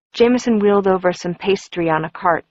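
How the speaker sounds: ordinary delivery, nothing marked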